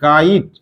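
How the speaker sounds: "কাইট" with a rising aa-ee glide; pronunciation demonstration. Shown as a demonstration. Teacher showing how it is written as said, "কাইট" with a clear aa-ee. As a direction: show the eye vowel in "কাইট". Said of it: "উচ্চারণটা কেমন বলছি".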